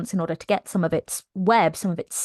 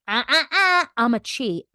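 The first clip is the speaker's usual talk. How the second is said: mock gloating laugh; 3 semitones higher than usual. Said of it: "she's all like".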